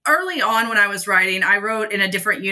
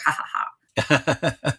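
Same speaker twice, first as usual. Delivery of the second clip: mock fake laugh; 5 semitones lower, 3 dB quieter, slower than usual. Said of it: "And I was like".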